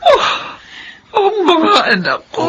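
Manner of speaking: overwhelmed mother on the verge of tears; choked-up joy; tearful mother. Acted. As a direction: voice catching with tears. Mother moved by children's promises.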